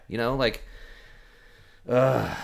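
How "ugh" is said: louder fed-up "ugh"; exasperated groan. Real, not acted. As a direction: groan out pent-up irritation. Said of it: "I'm getting worked up again".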